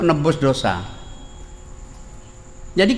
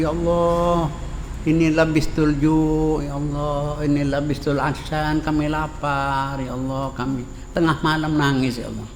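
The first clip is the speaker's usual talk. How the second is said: tearful prayer; 4 dB quieter than usual. Acted. Hungry man weeping in mosque.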